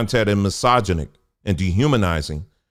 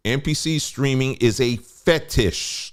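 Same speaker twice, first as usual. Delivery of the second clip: FETISH set apart, higher-pitched delivery; deliberate emphasis; 4 semitones higher than usual. Real, not acted. Streamer reading an article to viewers, deliberate emphasis. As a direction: read it out pointedly, pausing before FETISH. Reads line, then says it again.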